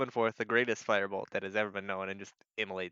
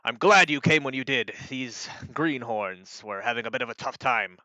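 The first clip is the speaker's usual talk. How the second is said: lightly voiced knight greeting an ally; a hint of a hearty commander; knightly commander; 5 dB louder than usual. Knight shaking an ally's hand, lightly hearty. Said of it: "he sort of says".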